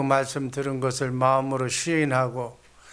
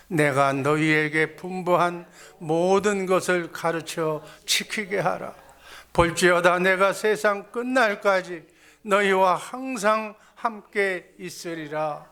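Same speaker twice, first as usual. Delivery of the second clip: slow, measured recitation of scripture; scripture reading; 2 semitones higher, slower than usual. Real, not acted. Preacher leads congregation in reading the verse together, slow scripture reading. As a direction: read it out slowly for all to follow.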